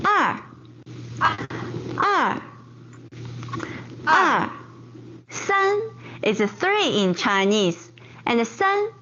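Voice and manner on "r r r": R dropping sharply from high; fourth tone er. Shown as a demonstration. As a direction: snap R down from the top, fourth tone. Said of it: "R is fourth tone".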